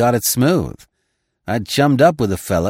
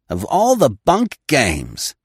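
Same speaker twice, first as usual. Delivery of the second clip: shaking with anger; 6 semitones higher, 3 dB louder, slower than usual. Acted. Coots enraged.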